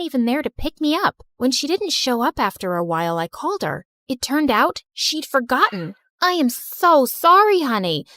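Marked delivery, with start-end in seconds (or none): 6.2-8.1 gushing apology. Acted. Aunt apologizes for forgetting the airport pickup, gushing. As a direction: overdo the sorry.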